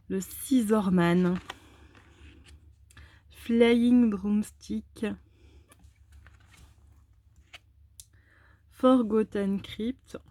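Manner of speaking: slow, careful English card names in a heavy French accent. Real, not acted. Vlogger reading English card names aloud, slow heavy French accent. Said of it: "mon accent anglais épouvantable".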